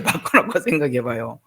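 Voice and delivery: ordinary talk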